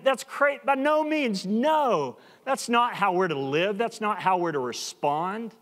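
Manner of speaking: emphatic rejection, starting high and easing down; Paul, emphatic. Retold or imitated. Preacher voicing Paul correcting believers, emphatic. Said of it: "this is really emphatic".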